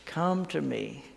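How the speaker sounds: hushed, tender scripture quote; words of grace. Retold or imitated. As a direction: offer comfort quietly, leaving long pauses. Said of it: "the words of grace".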